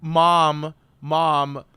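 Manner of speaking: half-hearted call for Mom; mock yell. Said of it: "I have to yell".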